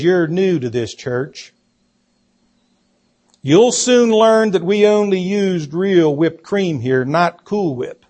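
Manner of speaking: slow, unfazed kitchen-queen put-down. Retold or imitated. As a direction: lightly imitate an imperious church lady, taking it slowly. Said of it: "Without batting an eye, the queen of the kitchen".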